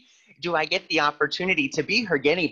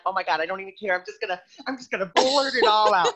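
rushing, louder and higher at the end; eager blurting; 5 semitones higher, 3 dB louder, faster than usual. Retold or imitated. The speaker replaying how he blurted it all to Nicole, fast and eager. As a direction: gush it all out at once.

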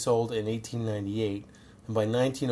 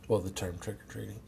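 voice giving out; 7 dB quieter than usual. Real, not acted. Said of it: "Clearly my voice is giving out".

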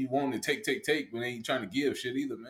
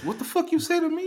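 mock furious yell. Husband snapping at a partner over fifty fifty, mock furious yell. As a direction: yell it like a man losing it. Acting out a domestic fight.

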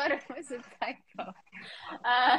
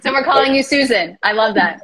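excited; 15 dB louder than usual. Real, not acted. Delighted reaction to funny name.

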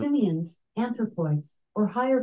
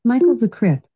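loud; 2 semitones higher, 11 dB louder than usual. Real, not acted. Alexa repeats loudly.

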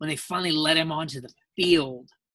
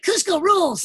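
much higher, louder cartoon voice; Guaca character voice; 14 semitones higher, 6 dB louder than usual. Voice actor demos his cartoon role for his daughter, high squeaky. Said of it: "Guaco will be like".

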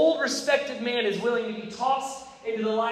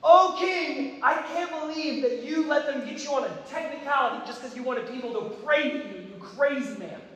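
mock angry; 4 semitones higher than usual. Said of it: "He should be like".

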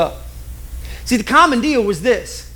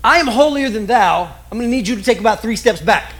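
holier-than-thou. Retold or imitated. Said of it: "Here's what it meant".

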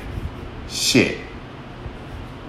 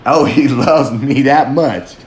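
mock smitten quote; slower than usual. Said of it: "I really want you to be like".

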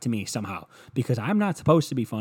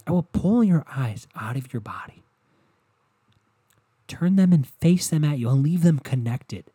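louder, rising mock rage; over-the-top angry threat; hammed-up rant; 2 semitones higher, 4 dB louder than usual. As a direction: escalate the gory threat, getting louder. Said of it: "you go".

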